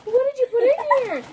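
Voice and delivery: high, drawn-out mock disgust with a laugh; disgusted teacher. Teacher spitting out students' bad baking, exaggerated disgust. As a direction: recoil in exaggerated disgust, pitch shooting up.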